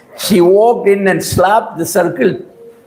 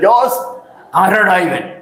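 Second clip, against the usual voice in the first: mock rude call, raised at the start; rude demand; 2 semitones higher than usual. Angry woman calls up to Jose from the steps, rudely. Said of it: "Don't talk like that".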